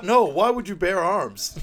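slow, high, loud disbelief; incredulous squeak. Retold or imitated. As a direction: stretch it out in shocked disbelief. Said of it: "He's like".

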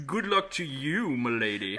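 slow, lightly voiced courtly villain; a hint of a gallant scoundrel; mustache twirling villain. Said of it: "he twirls his mustache".

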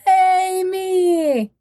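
sarcastic self-cheer; mock celebrating own failure; sarcastic yay. Real, not acted. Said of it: "screwing up like crazy".

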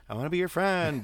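high-pitched parody of gushing; mocking eager friend. Co-host echoing the mockery of a podcaster, high gushing parody. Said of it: "you could talk some shit about the".

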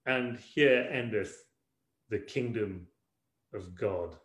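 slow, falling mock liturgical close; mock-solemn scripture ending. Preacher closes his joke gospel story, mock-solemn and slow. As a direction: intone it like the end of a reading, slowly.

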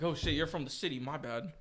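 timid retreat, going quiet; meek backing down. Retold or imitated. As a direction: back off like you're scared. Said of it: "He's like".

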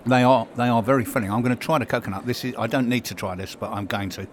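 talking while chewing a snack bar; mouth full. Real, not acted. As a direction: speak round a mouthful of cake. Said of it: "because I'm munching my way through that".

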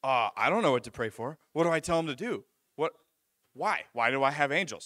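imitated mild panic, questions tumbling out; half-acted panicky questioning; panicking. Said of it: "And he's a panic".

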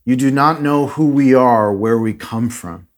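flat, even, lifeless monotone. Retold or imitated. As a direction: recite it in a trance-like monotone. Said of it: "he says in this monotone voice".

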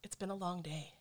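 hushed whisper. Real, not acted. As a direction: whisper the thought. Reflective speech.

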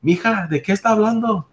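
grandma. Acted. Joke: grandma asks question.

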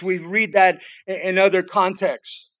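ordinary delivery

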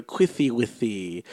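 slow, drawn-out lisp; lisping impression. Friend introducing another mock impression, slow lisping imitation. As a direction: mimic a friend's lisped baby talk. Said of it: "that's another impression".

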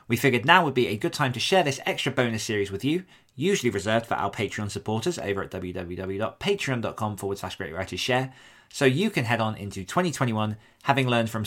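upbeat holiday bonus announcement; podcast announcement. Acted. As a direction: address the listeners with lively, punched emphasis.

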